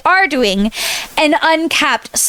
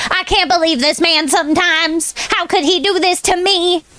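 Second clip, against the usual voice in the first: mock indignation; 5 semitones higher than usual.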